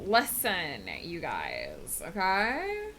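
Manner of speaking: drawn-out train lady voice with rising okays. Acted. Train lady lecturing Willow about working for the train, drawn-out role voice. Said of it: "work for the train lady intensifies".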